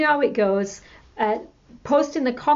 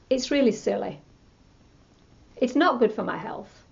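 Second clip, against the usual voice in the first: calm letting go; 2 semitones lower than usual. Shown as a demonstration. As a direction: settle the anger and release it gently. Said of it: "then you start to change the words around".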